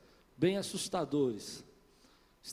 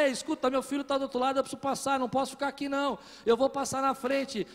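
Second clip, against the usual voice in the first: fast, higher, pleading with the guards; anxious anger; 6 semitones higher, 4 dB louder, faster than usual. Retold or imitated. Father losing patience with airport guards, anxious and angry. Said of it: "começou a se encher de angústia, de ira".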